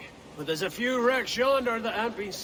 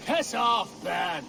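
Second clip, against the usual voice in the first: rough parting shout. Acted. Parting jab at a friend.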